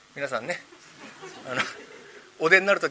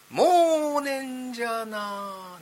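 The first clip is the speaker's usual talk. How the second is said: high, slow eerie ghost moan; slow, high spooky drawl; 4 semitones higher, much slower than usual. Acted. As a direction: drag it out like a ghost covering up. Ghost voice dodging.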